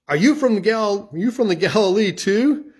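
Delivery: high, loud, scoffing question; mocking Pharisees. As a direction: sneer at Nicodemus's origins. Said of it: "They replied".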